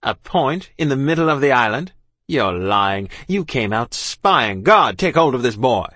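incredulous, building to a loud command; accuse, then call out the order; officer shouting. A narrator's reading. Officer accusing child of spying, shouted. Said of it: "he shouted".

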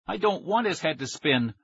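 words pushed through gritted teeth. A narrator's reading. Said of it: "said through gritted teeth".

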